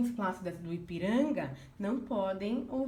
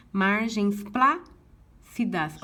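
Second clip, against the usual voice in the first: margens plácidas counted syllable by syllable, slow and louder; slow scansion; 6 dB louder, much slower than usual. Shown as a demonstration. Teacher to class, counting verse syllables slowly. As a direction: spell out margens plácidas in beats. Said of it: "só contei até o plá".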